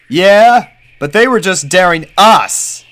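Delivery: put-on high, loud boy pony; young colt voice. A narrator's reading. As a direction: point it out like a kid.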